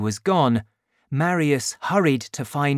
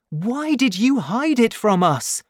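put-on much higher young woman's plea; Cosette, hurt; 10 semitones higher, 4 dB louder than usual. A narrator's reading. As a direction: ask why he kept it secret. Cosette pleading with father.

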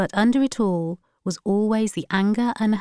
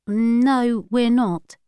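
a sharp, raised, angry no; 5 semitones higher, 5 dB louder, much slower than usual. A narrator's reading. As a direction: cut him off, irritated. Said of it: "replied Iry angrily".

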